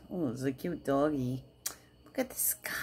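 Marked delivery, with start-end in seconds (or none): 2.0-2.7 high unvoiced whisper. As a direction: breathe it out dreamily. Whispered dreamy aside.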